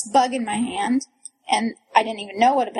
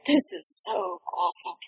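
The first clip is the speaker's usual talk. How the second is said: laid-back, slightly low self-quote; cocky chill; 3 semitones lower, 4 dB quieter than usual. Retold or imitated. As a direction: toss it off coolly, a touch cocky. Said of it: "I was like, cocky. I was so chill".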